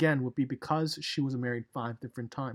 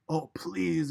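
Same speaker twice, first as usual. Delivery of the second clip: begging; 2 semitones higher, 3 dB louder than usual. Retold or imitated. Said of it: "in a begging way".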